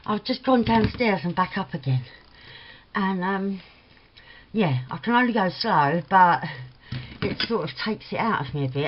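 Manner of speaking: slightly panting, catching breath. Real, not acted. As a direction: talk while winded from the stairs. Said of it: "I'm sorry if I'm panting".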